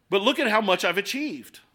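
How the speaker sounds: lightly put-on British self-importance; haughty British accent. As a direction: brag in a mock haughty British voice. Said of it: "I think in a British accent every time I think haughtiness".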